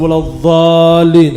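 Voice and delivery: الضالين with an emphatic dh for ض; mistaken Gulf dad. Retold or imitated. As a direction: imitate the loud dh-like error in الضالين. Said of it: "هذا خطأ في بلاد الخليج". (نطق الضالين بظاء بدل الضاد)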